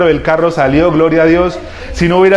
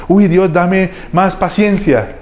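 mock slow prayer; 3 semitones higher, much slower than usual. Mocking a lazy prayer for patience.

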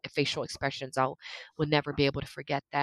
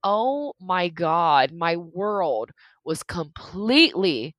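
slow inner thought; slower than usual. Retold or imitated. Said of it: "now it's like".

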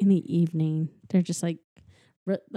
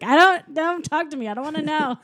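higher, slightly louder mock grumble; imitating a fed-up old man, pitched up; mock grumpy old man; 8 semitones higher, 3 dB louder than usual. Old man refusing to hear.

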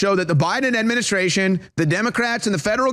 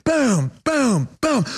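mimed punch sounds; 3 semitones higher, much slower than usual. Retold or imitated. Imitates the punches.

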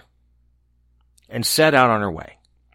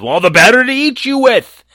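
high, loud menacing wolf; gloating before the pounce; 11 semitones higher, 7 dB louder than usual. A narrator's reading. Wolf reveals himself.

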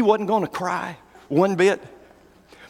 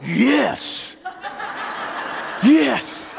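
laughing mock joy; 5 semitones higher than usual. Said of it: "I'd been like".

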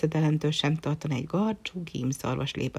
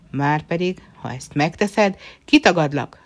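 angry threat; 6 dB louder than usual. Acted. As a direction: slam the last word down. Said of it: "csapott az asztalra a császár".

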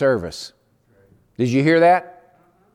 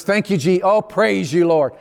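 joyful praise; 3 semitones higher than usual. Retold or imitated. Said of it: "But this time it was".

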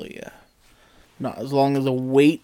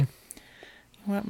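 slow musing; 8 semitones higher, 9 dB quieter, much slower than usual. Retold or imitated. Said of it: "I'm like".

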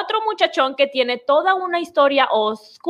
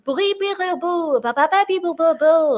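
mock French gibberish; 4 semitones higher than usual. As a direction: babble fake French syllables. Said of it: "¿Cómo suena París para ustedes?". (francés inventado)

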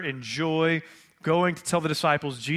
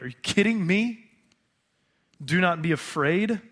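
louder, disbelieving challenge to the angel; incredulous protest; 3 semitones higher, 3 dB louder than usual. Pretend. Women protesting to the angel, incredulous and raised. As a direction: push back in disbelief, almost shouting.

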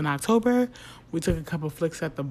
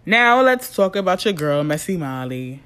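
loud announcer hype; 2 semitones higher, 10 dB louder than usual. Real, not acted. Announcing new segment.

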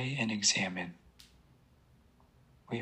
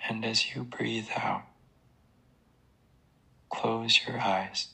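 slow breathing cue. Shown as a demonstration. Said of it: "Start by taking some deep breaths".

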